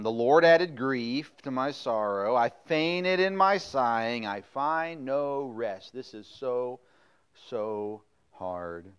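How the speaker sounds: slow, drawn-out whiny lament; mock lament. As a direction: overplay the complaining. Preacher mocks the lament.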